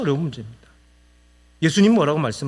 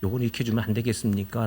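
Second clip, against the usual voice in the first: polite request; 5 semitones lower, 7 dB quieter, faster than usual. Shown as a demonstration. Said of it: "라고 공손하게 이야기하세요".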